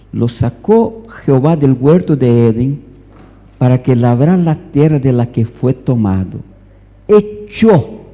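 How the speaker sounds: loud, emphatic Bible reading; forceful scripture reading. Real, not acted. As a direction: proclaim the verse to the congregation. Reads scripture aloud forcefully.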